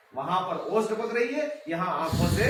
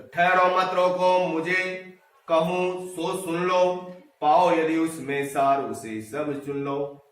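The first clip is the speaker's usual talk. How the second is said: slow, drawn-out verse reading; poem recitation; slower than usual. Acted. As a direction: recite verse with long, measured syllables. (धीमा, लयबद्ध कविता-पाठ)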